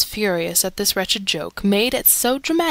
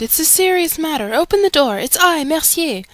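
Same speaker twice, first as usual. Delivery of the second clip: urgent shout, raised in pitch and volume; acted shout; 7 semitones higher, 4 dB louder than usual. A narrator's reading. Man shouting for the door to be opened, acted raised voice. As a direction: call out high and loud, as through a door. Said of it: "I shouted".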